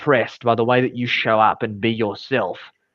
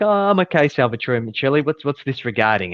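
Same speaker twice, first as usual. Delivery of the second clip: guarded, mildly mocking echo of the full name; wary mock repeat; 2 semitones higher than usual. Boss answering an unknown caller, a touch wary and mocking. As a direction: repeat his name back, a touch sceptical. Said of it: "And I'm like".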